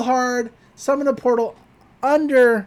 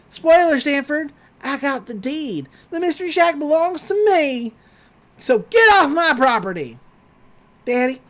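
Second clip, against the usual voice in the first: higher, smug villain gloat; mock Gideon gloat; 6 semitones higher than usual. Gideon evicting Stanford, higher and smugly gloating. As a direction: lord it over Stanford.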